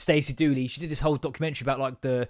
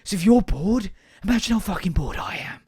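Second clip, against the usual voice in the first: mock exasperated rant; 5 semitones higher, 5 dB louder than usual. Ranting at bored pupils.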